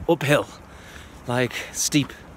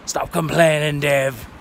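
louder, stern mother's telling-off; scolding mum; 2 semitones higher, 6 dB louder, slower than usual. Retold or imitated. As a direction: scold him like an impatient mum. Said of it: "That's what my mum would say".

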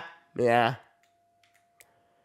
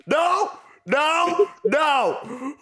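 high, sharp scolding shouts; strict pet owner; 9 semitones higher, much slower than usual. Pretend. Gamer scolding an opponent like a pet, mock-strict. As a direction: tell off a naughty cat. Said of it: "You sounded like you're strict to a pet".

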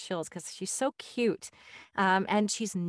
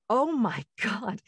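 laughing disbelief; 4 semitones higher, 3 dB louder, slower than usual. Retold or imitated. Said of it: "She's like".

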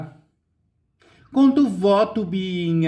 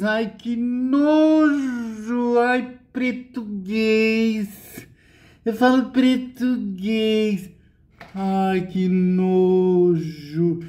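mock disgust; 3 semitones higher, much slower than usual. Mocking snobbish disgust.

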